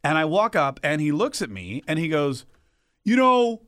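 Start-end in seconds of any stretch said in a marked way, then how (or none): 3.0-3.6 imitating the grumpy boyfriend in a hammed Brooklyn accent; tough guy Brooklyn accent. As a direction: do a gruff New York wise guy bit. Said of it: "Why is he from Brooklyn?".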